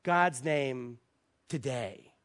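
slow, grave question with pauses; imitating a man's earnest gravity; really serious. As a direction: ask it solemnly, phrase by phrase. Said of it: "he looked really serious at me".

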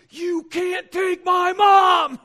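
screaming at God, slow and stretched; a raw, full-force cry of grief; desperate scream. Retold or imitated. Son screaming at God over his dying mom, anguished shout. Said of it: "I just screamed at God".

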